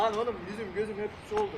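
breathless after the water; panting between words; out of breath. Real, not acted. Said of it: "Lan nefes alamadım".

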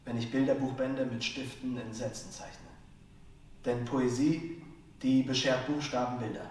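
rhythmic, rhyme-driven stage delivery; slam poetry. Acted. Slam poet performs his piece on wordplay, rhythmic spoken word.

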